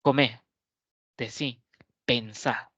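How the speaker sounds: acento en la última sílaba: comé, decí, pensá; voseo. Shown as a demonstration. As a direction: marca fuerte la sílaba final de "pensá". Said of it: "en el español utilizamos mucho el voceo". (voseo rioplatense)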